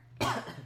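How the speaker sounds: a real cough; coughing fit. Real, not acted. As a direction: cough once, sharp. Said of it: "And I'm coughing".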